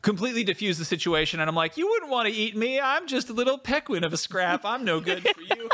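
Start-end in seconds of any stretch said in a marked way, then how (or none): 1.8-5.7 high, wheedling little-creature plea; hammed-up helpless squeak; mock pleading. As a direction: talk your way out, playing small and harmless. Acts pleading with the owl bear.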